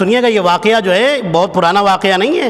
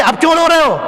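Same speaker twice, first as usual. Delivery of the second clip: higher teasing voice for Ibrahim; amused teasing; 7 semitones higher than usual. Retold or imitated. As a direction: tease the crying leader, pitched up. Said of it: "ابراہیم کہتا ہے کہ".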